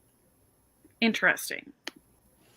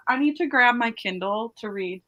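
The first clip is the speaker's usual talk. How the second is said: ordinary talk, nothing marked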